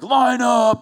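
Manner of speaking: loud, high barked order to a class; daddy voice command. Retold or imitated. Teacher's husband ordering unruly kids to line up, loud commanding call. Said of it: "Two daddy voices on the scene".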